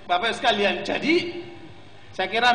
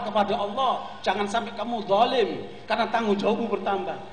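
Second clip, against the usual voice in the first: calm advice. Retold or imitated. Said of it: "Dengan tenang".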